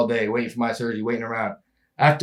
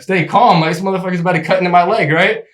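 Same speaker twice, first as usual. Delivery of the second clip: incredulous, fast; 3 semitones higher than usual. Retold or imitated. Surgeon about to cut awake patient.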